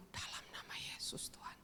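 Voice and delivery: hushed whisper of a prayer through the door; whispered prayer at the child's door. Retold or imitated. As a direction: breathe the words so no one hears. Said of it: "saya suka tumpang tangan dari pintu".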